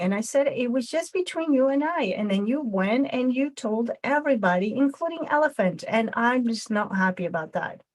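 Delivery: upset friend confronting Raccoon over a secret. Shown as a demonstration. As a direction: confront a friend who broke your trust. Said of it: "the next one is gonna be aggressive".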